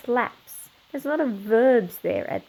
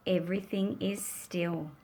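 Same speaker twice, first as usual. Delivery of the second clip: soft unvoiced whisper; 5 semitones lower, 10 dB quieter than usual. A narrator's reading. Narrator hushing the class at the still ending, whispering. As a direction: breathe the words out, barely there. Calm after the storm.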